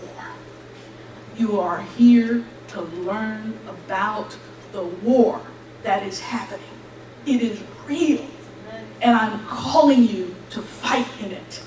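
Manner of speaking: slow, solemn pronouncement; voice of God. Retold or imitated. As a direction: deliver a grave calling, word by word. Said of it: "very clearly in my spirit, he said".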